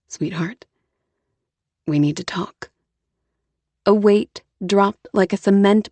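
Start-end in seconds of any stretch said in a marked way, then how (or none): 0.1-2.7 Jonah, serious. A narrator's reading. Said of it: "Jonah spoke".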